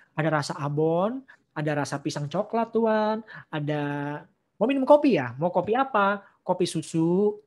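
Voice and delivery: playful shopkeeper voice offering coffee menu; lightly voiced eager café waitress; mock cheerful server. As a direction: hawk the drinks like a friendly barista. Imagined widow as cheerful café server.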